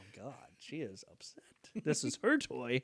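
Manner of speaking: very soft, low aside; hushed realisation. Retold or imitated. Kid realises mom is upset, hushed aside. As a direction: murmur it to yourself, dropping to a whisper.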